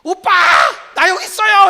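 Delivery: loud, high mock fan shout; fan calling out. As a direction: yell so the idol hears you. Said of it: "그 사람이 들릴 정도로".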